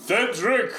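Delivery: yelling into the well. Acted. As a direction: call the runaway by his full name. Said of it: "I yell into the well".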